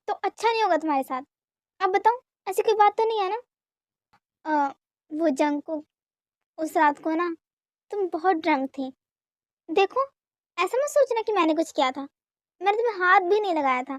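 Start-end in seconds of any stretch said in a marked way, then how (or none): 4.5-8.9 slow, halting start to a confession; hesitant stalling. Acted. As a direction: stall before owning up, drawing it out. Reluctant to reveal that night.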